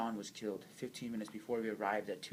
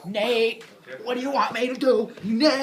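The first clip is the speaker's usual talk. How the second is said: high, loud scream breaking into laughter; laughing scream; 13 semitones higher, 16 dB louder than usual. Acted. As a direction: scream it through your laughter. Repeated plea becomes a scream.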